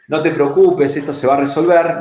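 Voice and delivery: firm, bright reassurance; confident reassurance. Shown as a demonstration. Coach contrasts tones, confident reassuring take. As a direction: assure them it's handled. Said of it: "no es lo mismo de decir".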